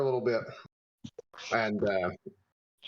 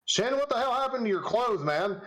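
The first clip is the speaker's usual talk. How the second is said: dragon Katarvas voice; 10 semitones higher than usual. Acted. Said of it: "he looks at you and says".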